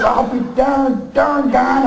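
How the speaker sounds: slow, hammed-up Oklahoma drawl with a laugh. Comic plays up his Oklahoma twang for the audience, slow drawl. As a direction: drawl it out like a Wichita farmer. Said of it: "I talk like this".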